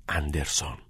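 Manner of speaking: low, hushed single name; muttered reply. A narrator's reading. Pupil answering a classmate on the sly, muttered. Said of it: "زیر لب در جوابش گفت".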